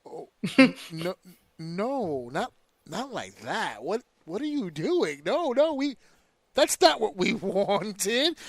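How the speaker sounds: high, laughing panicked fan voice; flustered fans laughing nervously; mock flustered fans. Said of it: "And they go".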